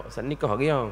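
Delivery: lightly voiced nosy student asking; curious asker. Students asking the ustaz if he is married, lightly mimicked. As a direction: ask it as a curious student, barely acted. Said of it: "Jangan tanya pula".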